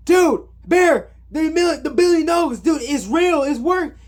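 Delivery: high, urgent burst of news; acted-out breathless-with-excitement announcement; imitating excited friend. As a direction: blurt it out like huge news, hammed up. Acts out Ian's excited news.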